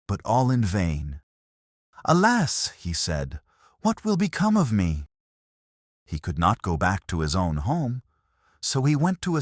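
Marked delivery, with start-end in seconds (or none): 2.0-2.7 high, loud despairing wail; anguished cry. Acted. Lover weeps for lost bride. 3.8-5.1 anguished cry. Acted. Lover weeps for lost bride.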